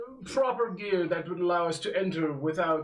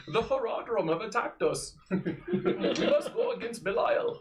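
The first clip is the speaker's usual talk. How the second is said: Deckard Cain voice. Acted. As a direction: ham up a solemn old scholar through giggles. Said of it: "my only old person voice sounds like Deckard Cain".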